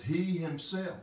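"He himself" pitched high and emphatic; emphatic stress. Shown as a demonstration. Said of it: "It's very emphatic".

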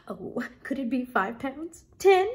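hushed guess building to loud, high exclamations; excited crying out. Acted. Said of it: "she cried".

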